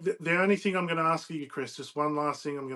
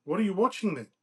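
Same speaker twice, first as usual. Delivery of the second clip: higher-pitched call after someone; mild, eager call; 6 semitones higher, 6 dB louder than usual. A narrator's reading. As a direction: call out a question to a departing friend. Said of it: "when Philip called out".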